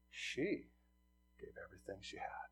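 soft, breathy whispered ending; hushed whisper. Retold or imitated. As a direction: drop to a whisper. Jesus quietly concludes.

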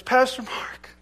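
put-on eager little boy. Boy voiced pleading in story.

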